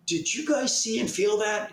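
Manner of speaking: retold yell. Fishermen calling to another boat at night, mock yell. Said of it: "we started yelling over the boat".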